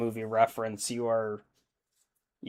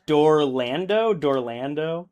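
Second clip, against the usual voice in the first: slow, rising puzzled question; trying the made-up word out, slowly; baffled, drawn-out Dorlando?; puzzled repeat; 3 semitones higher, slower than usual. Real, not acted. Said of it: "you forgot Dolorado".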